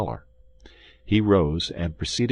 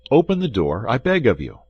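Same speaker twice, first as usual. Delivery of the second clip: high, louder entreaty; urgent, pitched-up plea; pleading call; 5 semitones higher, 7 dB louder than usual. A narrator's reading. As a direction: beg through a closed door, voice raised. Begging friend behind door.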